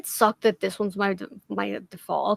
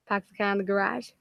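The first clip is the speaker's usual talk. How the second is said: Boston accent, R dropped as in "Park the car in the garage?"; 4 dB quieter, faster than usual. Shown as a demonstration. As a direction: say it like a local in Boston. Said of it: "That's how we fucking say it".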